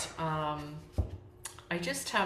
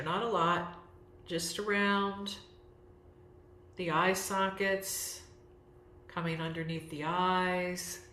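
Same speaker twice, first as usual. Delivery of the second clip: gentle guided self-massage, with long pauses; guided relaxation. Real, not acted. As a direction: guide them unhurriedly through each step, pausing between phrases. Leads guided self-massage, yoga nidra.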